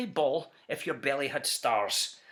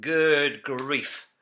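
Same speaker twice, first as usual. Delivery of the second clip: mild mock groan; a dismayed grumble; 4 semitones lower, 5 dB louder than usual. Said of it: "groaned the ones who had stars".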